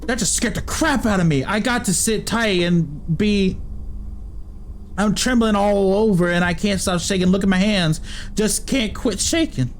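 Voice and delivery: a frightened villager hiding from temple guards; country accent. Acted. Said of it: "Why am I speaking in a country accent".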